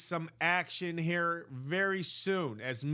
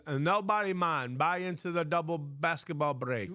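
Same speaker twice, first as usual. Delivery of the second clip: put-on Jamaican accent; 3 semitones higher than usual. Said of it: "doing a Jamaican accent right now".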